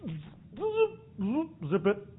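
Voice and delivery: soft urgent shush; quiet them down fast; hushing them. Acted. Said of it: "and Peter goes".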